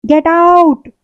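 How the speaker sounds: a sharp, loud command; husband roars at his mother and sisters, loud and cutting; thundering shout. Acted. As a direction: blast it across the room. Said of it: "Shyamal की कड़कदार आवाज कमरे में गूंजी".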